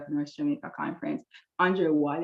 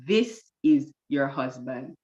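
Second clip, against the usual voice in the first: slow, lower, lightly voiced divine statement; God's pronouncement; 4 semitones lower, slower than usual. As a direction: pronounce it slowly and evenly, lightly as God. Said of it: "I heard God say to me".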